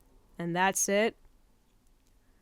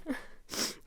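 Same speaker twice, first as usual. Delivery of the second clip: unvoiced teary breath; 10 dB quieter than usual. Real, not acted. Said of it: "wipe tears from my eyes".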